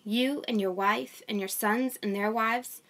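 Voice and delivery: steady, measured Bible reading voice; scripture reading. Acted. A mom reading Genesis to her online audience, measured reading. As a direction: read the passage aloud to the viewers.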